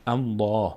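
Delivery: "الله" with a full, dark L and open back "aa"; heavy Allah. Shown as a demonstration. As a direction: say "الله" heavy, mouth opening upward. («الله» پر و درشت، دهان رو به بالا)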